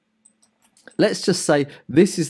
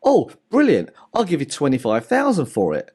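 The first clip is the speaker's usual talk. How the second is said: eager buyer. Retold or imitated. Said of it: "And you're like".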